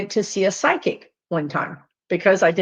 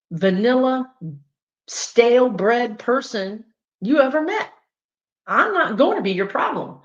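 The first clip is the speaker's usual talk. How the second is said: indignant; 3 semitones higher than usual. Retold or imitated. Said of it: "And you're like".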